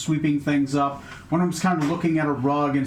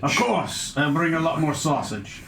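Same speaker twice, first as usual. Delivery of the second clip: put-on Scottish accent. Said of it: "Suddenly Scottish".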